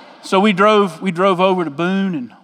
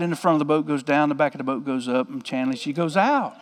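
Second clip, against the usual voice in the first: softer and resigned, as if it happens every time; weary, softer retelling; 4 semitones lower, 7 dB quieter than usual. A narrator's reading. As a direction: drop the voice, tired of rescuing her again. Second rapid, told wearily.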